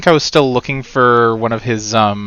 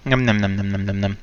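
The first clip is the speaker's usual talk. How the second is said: vocal warm-up; 3 semitones lower, 6 dB quieter than usual. Shown as a demonstration. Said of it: "vocal warm-ups".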